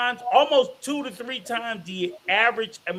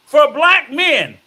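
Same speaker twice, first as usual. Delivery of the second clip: loud preaching; 4 semitones higher, 5 dB louder than usual. Real, not acted. Preaching to black men.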